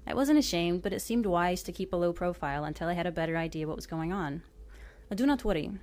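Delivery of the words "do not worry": reassuring. Retold or imitated. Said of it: "he said reassuringly".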